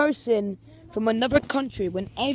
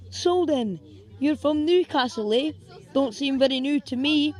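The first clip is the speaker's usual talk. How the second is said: mock Scottish tease; 5 semitones higher than usual. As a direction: poke fun cheekily. Teasing a Newcastle girl.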